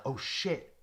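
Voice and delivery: a mild mock yell of surprise; retold yell. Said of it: "I yell out".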